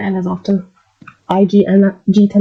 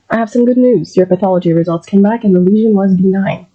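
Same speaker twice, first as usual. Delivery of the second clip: reassuring doctor giving good results, louder; breaking good news; 4 dB louder than usual. Shown as a demonstration. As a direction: deliver good news gently to a patient. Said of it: "let's practice that in a sentence".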